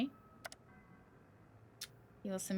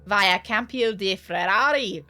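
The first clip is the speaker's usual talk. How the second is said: Il Capitano voice; 5 dB louder than usual. Acted. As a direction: play the newcomer as a careful gentleman.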